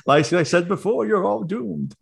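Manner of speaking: a hint of a creepy ghost; ominous ghost voice. Spooky Dan voice joke.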